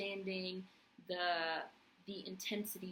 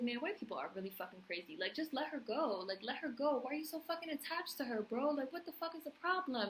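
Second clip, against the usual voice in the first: pitched way up in disbelief, pleading with the screen; begging him to just let her go, voice climbing high; exasperated outburst; 5 semitones higher than usual. Retold or imitated. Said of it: "And I was just like".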